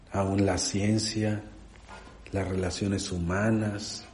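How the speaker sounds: unhurried prayer with long pauses between phrases. Real, not acted. Preacher thanks the Lord for his word, measured prayer. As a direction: pray quietly and simply, phrase by phrase. Leads closing prayer after sermon.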